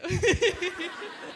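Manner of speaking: bright burst of laughter; real laugh breaking out. Real, not acted. Joke about tissues.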